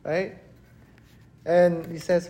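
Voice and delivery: usual speaking voice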